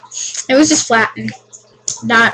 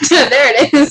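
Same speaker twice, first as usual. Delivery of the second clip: laughing; 3 semitones higher, slower than usual. Real, not acted. Laughing while lemon in mouth.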